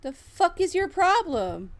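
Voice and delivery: high, slow, incredulous challenge; confronting another player, high and drawn out; angry snap. Real, not acted. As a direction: demand it, exasperated. Raging at other player.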